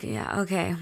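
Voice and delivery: a touch of sarcastic doubt; understated, knowing brush-off; wife brushing off husband's birthday-trip claim, mildly snide; passive aggressive. Retold or imitated. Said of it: "I'm being very passive aggressive".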